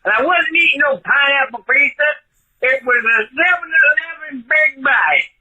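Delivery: a hint of a put-on Southern accent all through; fake Southern accent. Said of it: "that's a totally fake accent".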